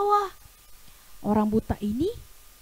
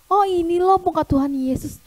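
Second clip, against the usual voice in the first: louder, delighted wonder; very happy; 3 semitones higher, 5 dB louder than usual. Acted. Healed man first sees Jesus' face, delighted. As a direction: marvel aloud with joy. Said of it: "Dia merasa sangat senang".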